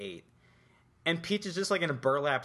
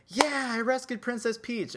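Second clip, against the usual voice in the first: high-pitched, louder victory cheer; mock triumph; 11 semitones higher, 3 dB louder than usual. Player celebrating the princess's rescue, mock triumphant. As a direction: cheer like a player who just won.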